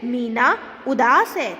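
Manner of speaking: mildly surprised, weight on उदास; a touch of astonishment at the news; surprise reading. Shown as a demonstration. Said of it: "विस्मय का भाव बता रहा है".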